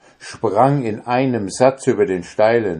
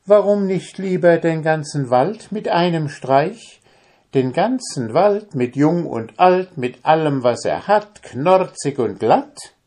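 high, louder swaggering boast; boastful brag; 10 semitones higher, 4 dB louder than usual. Acted. Tailor boasting to the giant, swaggering high. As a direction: show off, outdoing the order. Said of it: "fragte das Schneiderlein".

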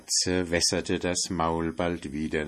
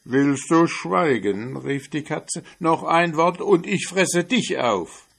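furious cat, much louder; threatening cat; 9 semitones higher, 7 dB louder than usual. Acted. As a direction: silence her with a threat.

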